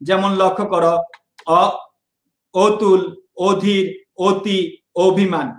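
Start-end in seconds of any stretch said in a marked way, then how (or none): 2.6-5.5 অতুল, অধীর, অতি, অভিমান each begun with a rounded "o"; closed initial vowel. Shown as a demonstration. Teacher listing examples for students, each first অ said as closed "o". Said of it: "প্রতিটি অ ও এর মতো উচ্চারণ হচ্ছে".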